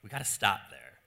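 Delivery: Jesus gently stopping the man; gentle correction. Acted. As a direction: correct him kindly, no edge. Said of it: "Jesus responds gently".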